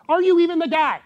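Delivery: high, loud pleading question; anguished cry. Retold or imitated. John in prison crying out at Jesus, anguished. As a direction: cry it out in despair. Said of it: "he's gotta be thinking".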